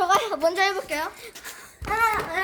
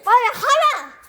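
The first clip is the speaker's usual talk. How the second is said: drill sergeant; 4 dB louder than usual. Pretend. Mock drill instructor ordering.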